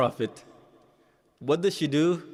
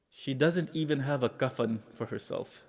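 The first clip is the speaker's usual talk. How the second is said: hushed sorrow; 6 dB quieter than usual. Real, not acted. Preacher revealing her poverty to mourners, hushed and sorrowful. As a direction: let it sink almost to nothing.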